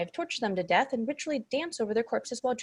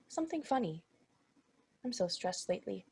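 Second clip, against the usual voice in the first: much softer, lower, worn out; weary confession; 4 semitones lower, 10 dB quieter than usual. Acted. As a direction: admit the stress quietly, drained. Stressed demon confides softly.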